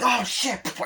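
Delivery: high-pitched imitated "oh shit" reaction; mock shock. Onlookers' shocked reaction retold.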